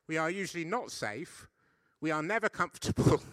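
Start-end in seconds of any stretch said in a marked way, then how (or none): 2.0-3.2 emphatic never. Acted. Punchline of the sermon contrast.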